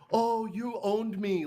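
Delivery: high, drawn-out mock concession; mock surrender. Pretending to admit defeat to his critic, high and mocking. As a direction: concede in an exaggerated high, slow voice. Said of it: "Do you want me to sit here and be like".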